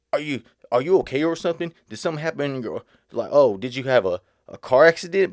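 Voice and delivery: imitating a snide smirking question; lightly mock his condescending tone; rude mocking question. Retelling a rude stranger at the store, snide. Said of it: "But the way he said it, though, it was, like, rude".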